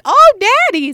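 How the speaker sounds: high, loud hammed-up moan; mock dirty talk. Giving a Skype partner what he wants, exaggerated moaning. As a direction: imitate an over-eager sexual cry. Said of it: "he wants to hear me be like".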